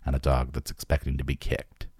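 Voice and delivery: measured first-person audiobook read; story narration. A narrator's reading. Narrator tells gang of a shady drug deal, story narration. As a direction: read the tale evenly, letting the dialogue lift slightly.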